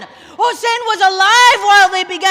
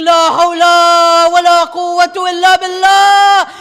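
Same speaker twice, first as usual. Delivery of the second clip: retold scream; 5 dB louder than usual. Hussein helpless as the tents burn, a loud anguished cry. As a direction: cry it out in despair. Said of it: "he began screaming".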